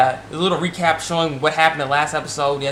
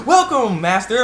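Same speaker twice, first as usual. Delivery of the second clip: mock maid greeting; 7 semitones higher, 3 dB louder, slower than usual.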